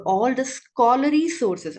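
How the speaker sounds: SCHOLARLY pushed out with extra weight; "scholarly sources" emphasized as the key term; stress on scholarly sources. Real, not acted. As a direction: lean firmly on the words "scholarly sources". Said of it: "I'm stressing the word scholarly sources".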